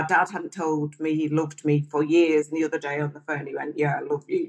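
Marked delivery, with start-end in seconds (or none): 3.8-4.5 begrudging. Retold or imitated. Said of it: "sort of begrudgingly".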